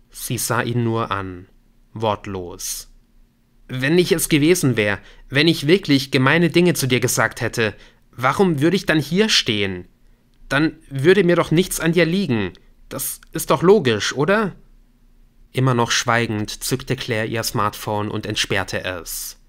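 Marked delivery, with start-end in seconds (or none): 3.7-14.5 raised, mildly agitated reasoning; young man pleading innocence. Acted. Accused man reasoning with silent woman, lightly agitated plea. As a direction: press your argument earnestly. Nick argues his innocence.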